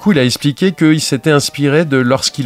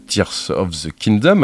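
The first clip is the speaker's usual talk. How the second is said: English accent; slower than usual. Shown as a demonstration. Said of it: "avec mon bel accent anglais".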